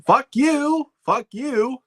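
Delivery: hammed-up Carlin yell at the audience; George Carlin shouting. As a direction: belt it out at the crowd like a mock Carlin. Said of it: "his impression".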